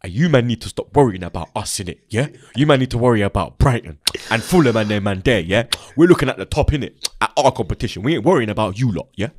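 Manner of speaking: her London accent, lightly mimicked; a half-done impression of her London accent; a light mock London accent, shot back at the rival fan; imitating her London accent. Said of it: "Let me try and get the accent".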